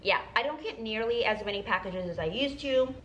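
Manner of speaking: gum tucked in the mouth; talking around gum; chewing gum. Real, not acted. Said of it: "Sorry, I'm chewing gum".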